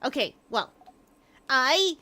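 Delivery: high, loud and pleading; eager girl character. Acted. Bonnie begging friend to teach her fighting, high and eager. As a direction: talk herself up, rushing with eagerness.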